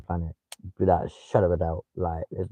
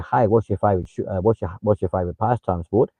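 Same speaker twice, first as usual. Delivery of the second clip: Australian questioning lilt, rising on "sport"; mimicked Aussie uptalk. Streamer imitating Australians asking their questions, Aussie uptalk. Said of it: "you go up at the end of the sentence".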